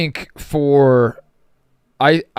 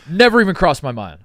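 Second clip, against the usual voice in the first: louder, higher insistence; emphatic repeat; 4 semitones higher, 5 dB louder than usual. Real, not acted. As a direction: punch the repeat. Repeating own words with emphasis.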